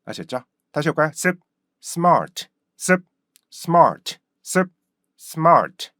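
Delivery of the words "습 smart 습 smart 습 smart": short stopped 습, then high-falling smart; started with 습. Shown as a demonstration. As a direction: cut 습, pause, punch smart in one beat. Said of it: "이렇게 발음하신다는 거". (습 끊고 탄력 있게 smart)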